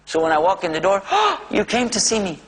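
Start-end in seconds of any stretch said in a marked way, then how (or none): 1.1-2.4 put-on higher, gentle old man voice; old father pleased to see his son; elderly father's voice. Father's repeated greeting retold.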